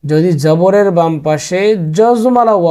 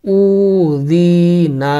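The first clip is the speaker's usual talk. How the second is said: syllable by syllable; slower than usual. Shown as a demonstration. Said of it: "একসাথে করে দেন".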